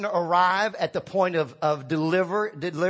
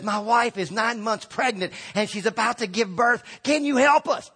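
pleading husband; 3 semitones higher than usual. Pretend. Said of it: "the husband looks at you and says".

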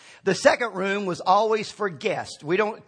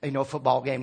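dismissive refusal; 4 semitones lower than usual. Pretend. Householder busy with lunch and football, dismissive. Acted householder turning the couple away.

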